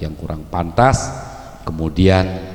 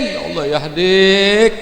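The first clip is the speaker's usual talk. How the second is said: gentle prayer; 11 semitones higher, 5 dB louder, slower than usual. Shown as a demonstration. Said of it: "umpamanya Udin".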